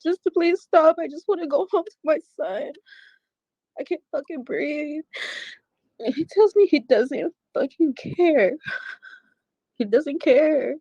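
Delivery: pleading through rising distress; upset. Real, not acted. Tearful retelling of the attack.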